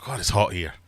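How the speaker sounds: put-on high complaining kid voice; whiny tern child.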